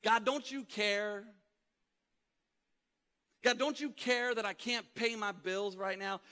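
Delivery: a believer crying out to God in hardship; anguished plea. Pretend. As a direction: pour out a desperate prayer. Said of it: "we have our own version of that question".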